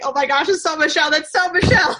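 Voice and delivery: high, fast, delighted gush; excited recognition. Retold or imitated. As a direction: squeal it like spotting a friend. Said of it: "I'm like".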